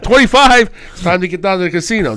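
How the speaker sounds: hyping up a Christmas casino trip; mock excited.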